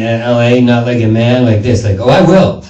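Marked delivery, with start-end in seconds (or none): 2.0-2.6 light mock girly sass; girly argue. Comic showing how men argue in LA, girly sass. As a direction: toss it off like a catty girl. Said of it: "as long as you talk like a girl".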